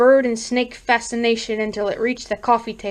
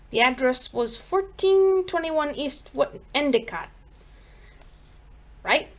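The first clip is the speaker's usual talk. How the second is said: higher, tentative checking of details; bemused; 4 semitones higher than usual. Acted. Police sergeant checking the caller's street address, bemused. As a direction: ask it in mild puzzlement. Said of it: "Sergeant Hall asked bemusedly".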